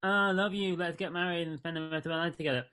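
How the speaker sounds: a hammed-up lovestruck declaration; mock romantic gush. Mocking a boyfriend's soppy love speech. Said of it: "he doesn't wanna be like".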